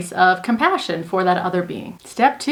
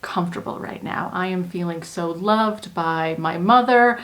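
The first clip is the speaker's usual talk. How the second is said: put-on soothing baby perspective. Shown as a demonstration.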